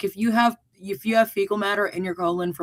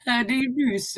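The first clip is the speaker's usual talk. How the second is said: put-on posh British accent; 4 semitones higher than usual. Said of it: "say it with that accent".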